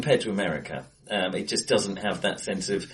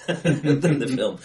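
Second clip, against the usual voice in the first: laughing; 3 semitones higher, 3 dB louder, slower than usual. Real, not acted. Laughing at own admission.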